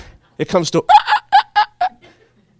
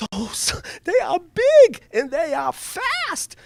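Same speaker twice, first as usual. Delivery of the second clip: awed hush; 13 semitones higher, much slower than usual. Retold or imitated. Awed at jets.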